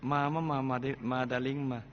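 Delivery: soft, sugary mock dare; too sweet taunt. Mother taunts the stepfather with a knife, sugary mock dare. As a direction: coo the dare like sweet-talking a darling. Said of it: "หวานไปใช่ไหม".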